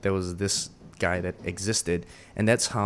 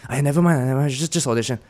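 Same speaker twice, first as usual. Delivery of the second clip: dismissive Singlish, louder; 5 semitones higher, 4 dB louder, faster than usual. Retold or imitated. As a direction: brush him off in Singlish. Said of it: "Then she's like".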